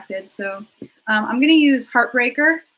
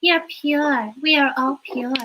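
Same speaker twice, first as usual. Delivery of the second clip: creepy anime doll voice; 4 semitones higher, slower than usual. Acted. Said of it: "sounds like a little doll in an anime".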